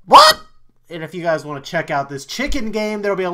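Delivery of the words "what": very high, loud startled cry; shocked squeak. Real, not acted. Viewer hit by a sudden scare, squealing what. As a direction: squeal in surprise.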